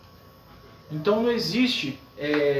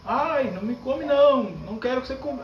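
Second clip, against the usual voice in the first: higher-pitched mock plea, not a real scream; mock vegetable cry; 5 semitones higher than usual. Teacher imitating a vegetable begging not to be eaten, mock cry. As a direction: act out a vegetable begging, half-hearted. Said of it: "o vegetal não grita".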